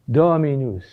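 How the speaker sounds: Dominus with a long stressed DO, falling end; dactyl stress. Shown as a demonstration. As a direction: lean on DO in Dominus, contrasting it with a spondee. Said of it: "A dactyl".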